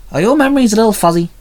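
high, loud and quick stern question. A narrator's reading. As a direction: press her sternly. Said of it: "Violet asked sternly".

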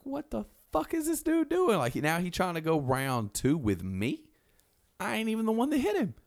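baffled he'd come at you; outraged disbelief. Retold or imitated. Jake outraged at attack.

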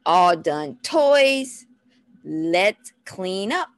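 slow, rhythmic parent cue; measured singsong instruction; rhythmic toddler talk. Shown as a demonstration. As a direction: draw out each word for a toddler. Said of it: "Get a little rhythmic with the way you talk".

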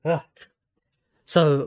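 winded and still catching breath; panting through the words. Real, not acted. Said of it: "I'm not as young as I used to be".

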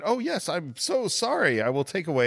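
high apologetic waiter; flustered waiter voice. Retold or imitated. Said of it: "the waiter's, like, going".

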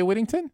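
Whittington with the T's softened to quick D sounds; American pronunciation. Real, not acted. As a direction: say "Whittington" American-style, tapped D for T. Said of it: "I pronounced your name Ian Whittington with a D".

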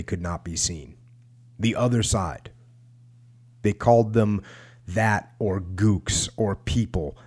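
measured, emphatic read-aloud; book narration. A narrator's reading. Podcast host reads a war memoir to listeners, measured narration. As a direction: read it out firmly, pausing between sentences.

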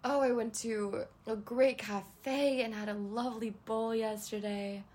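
usual speaking voice

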